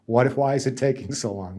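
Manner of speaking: anxious question, voiced at normal level; worried nurse asking. Striking nurse asking the negotiator why it takes so long, anxious. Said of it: "It's like".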